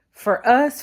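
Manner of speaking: ordinary talk, nothing marked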